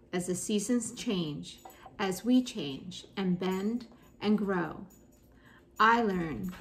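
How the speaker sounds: measured, deliberate poetry recital; poem reading. Acted. Teacher reads a sports poem to students, measured recital. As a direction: read it as verse, pausing between lines.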